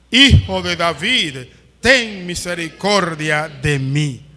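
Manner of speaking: loud, slow, drawn-out plea read aloud; crying out harder. A narrator's reading. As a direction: read it as an insistent cry, slowly. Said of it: "él clamaba mucho más". (clamor leído, fuerte y lento)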